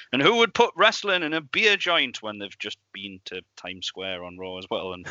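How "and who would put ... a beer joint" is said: imitating Vince. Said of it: "and he's like".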